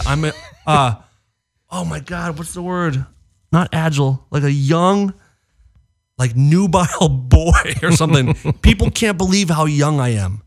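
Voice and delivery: lightly voiced boastful Trump; imitating Trump. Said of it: "He said".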